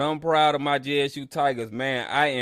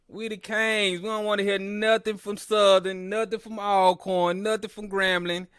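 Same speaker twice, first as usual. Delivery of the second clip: higher, boastful victory crowing; gloating; 5 semitones higher than usual. Real, not acted. Streamer rubbing the win in rivals' faces, higher and boastful. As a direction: crow like the champs you are. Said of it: "Just let me talk my junk right now".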